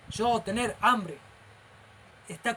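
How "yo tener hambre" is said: imitated pidgin speech. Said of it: "se burlan mucho de los indios".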